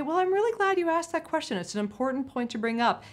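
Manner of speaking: demonstrating a calm stalling answer. Shown as a demonstration. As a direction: say it calmly, as if polished and prepared. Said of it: "very calmly say".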